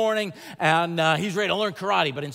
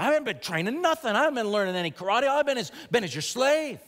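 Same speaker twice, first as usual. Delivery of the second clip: indignant complaint; 5 semitones higher than usual. Retold or imitated. Daniel's angry complaint retold.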